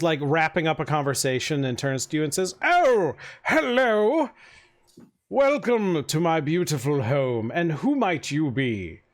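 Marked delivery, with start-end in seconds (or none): 2.6-9.0 gushing mayor. Acted. Mayor greets a newcomer at his party, lightly fawning. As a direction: play the flattering host, lightly.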